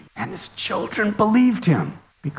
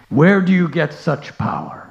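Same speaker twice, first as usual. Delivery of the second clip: mock shout; 4 dB louder than usual. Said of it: "as he was shouting at Prahlad".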